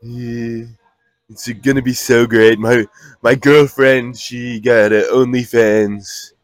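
mock Australian accent. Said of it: "That's Australia".

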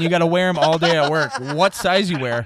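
asking through laughter; laughing. Real, not acted. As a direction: laugh while you ask. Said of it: "he's still laughing".

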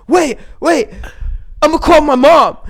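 high, urgent mock wail; hammed-up, high-pitched desperation; imitating panicked friend. Panicking stabbed friend voiced in a story.

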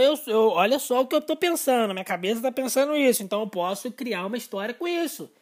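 put-on loud, eager young self sharing an idea; excited young self. Young self bursting to tell his wild idea, loud and eager. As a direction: rush out a new idea, thrilled. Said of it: "Eu falava".

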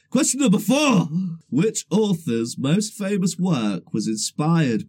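slow, deliberate quiz question read; quiz host. Acted. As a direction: read it out like a game show host.

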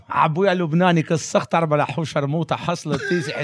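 Arabic phrases. Pretend. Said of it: "agora é árabe".

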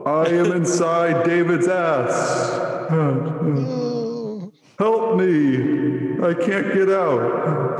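high, slow warped voice through a voice changer; pitch-shifted, slowed down and eerie. Acted. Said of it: "this awesome voice change".

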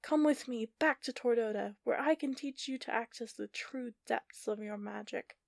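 high, loud villain shout. Acted. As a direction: call out over the storm. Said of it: "Giovanna shouted".

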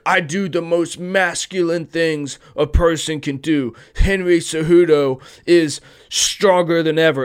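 lightly voiced cocky fighter boasting; a hint of a Trump-style brag; mock Cejudo boast. Mocking Cejudo's self-hype, a lightly voiced cocky boast. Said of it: "That was a terrible Trump impression".

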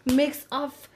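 slow, drawn-out mock introduction; mock self-introduction. Teasing a friend about her mixed heritage, mock self-introduction. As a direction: spell out the ancestry slowly, teasing. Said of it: "Why don't you come here and say".

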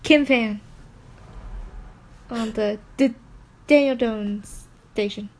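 playful fake stutter; mock stutter. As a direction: stumble on the first sounds. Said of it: "I'm not making fun of anyone who stutters".

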